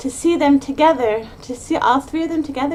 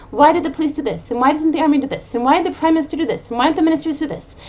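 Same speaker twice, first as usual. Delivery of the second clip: fast, higher-pitched mock rant of a blaming parent; angry blaming; 4 semitones higher, 4 dB louder, faster than usual. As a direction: fire off accusing questions, mildly hammed-up. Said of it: "being angry at everyone and blaming everyone".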